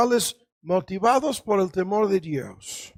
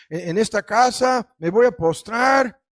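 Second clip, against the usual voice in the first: bold declaration; 5 semitones higher, 4 dB louder than usual. Retold or imitated. Misquotes the psalm boldly, then corrects.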